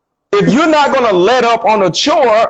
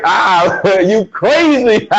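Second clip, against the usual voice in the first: laughing on the phone; 2 semitones higher, slower than usual. Retold or imitated. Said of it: "I'm on the phone like".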